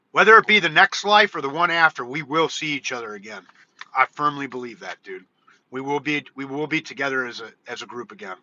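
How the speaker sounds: low, soft sincerity; hushed, heartfelt conviction; earnest, wistful. Real, not acted. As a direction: say it quietly, like a heartfelt promise. Earnest hope of reuniting with friends.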